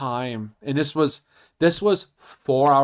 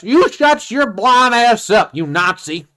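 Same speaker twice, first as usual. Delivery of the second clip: mock angry; 4 semitones higher, slower than usual. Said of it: "He goes".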